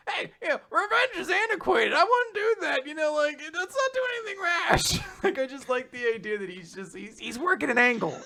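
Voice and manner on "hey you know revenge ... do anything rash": high, oily, falsely reasonable plea; slimy villain voice. Retold or imitated. Orochi smoothly talking Hiyori out of revenge, high oily voice. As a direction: talk her down like a sleazy schemer. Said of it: "he's just gonna be like".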